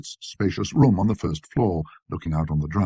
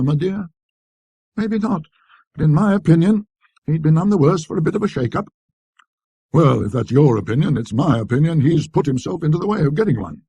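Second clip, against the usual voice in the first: much higher, tart and disapproving wife; lightly voiced shopkeeper's wife; wife's voice; 7 semitones higher, 5 dB louder than usual. A narrator's reading. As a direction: sound the prim grudging wife. Husband and wife dialogue.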